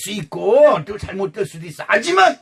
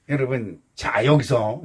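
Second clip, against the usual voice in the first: ordinary talk, nothing marked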